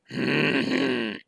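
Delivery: wolf grumble. Acted. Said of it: "grummelte der Wolf".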